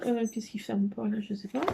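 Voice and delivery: whispering. Real, not acted. Muttering to herself while fiddling.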